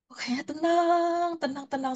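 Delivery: high, soft sigh of relief in words; retold calm. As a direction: stretch it out, then let it settle softly. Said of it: "Saya tenang banget".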